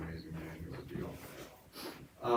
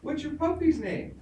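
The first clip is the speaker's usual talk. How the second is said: much higher, loud gushing preacher; hammed-up preacher; 4 dB louder than usual. Preacher welcoming the children at the tent, high and gushing. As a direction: sing it out like an over-sweet preacher, slowing at the end. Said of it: "they said".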